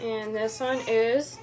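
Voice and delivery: slow, patient quizzing question; kindergarten teacher voice. Real, not acted. Mother quizzing toddler on colors.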